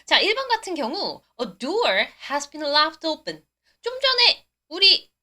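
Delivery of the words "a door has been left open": very slow, careful English; slow model sentence. Shown as a demonstration. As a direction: read it slowly to explain. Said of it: "설명을 좀 드려볼게요".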